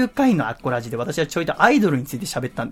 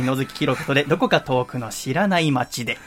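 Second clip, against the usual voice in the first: lightly put-on cool singer-songwriter introducing a song; かっこつけたシンガーソングライター. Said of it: "野月さんの思うかっこいいシンガーソングライターはそういう喋り方". (気取った江戸っ子風シンガーソングライターの曲紹介)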